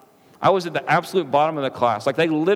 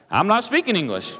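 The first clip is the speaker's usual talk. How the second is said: "I'm not speaking English" said higher, with rising irritation; getting frustrated; 4 semitones higher than usual. Retold or imitated. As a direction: push back, annoyed and a bit higher. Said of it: "So I'm getting frustrated".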